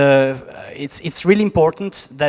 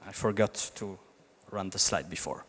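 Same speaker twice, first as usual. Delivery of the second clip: quiet; 7 semitones lower, 12 dB quieter than usual. Real, not acted. Admitting a slide mistake.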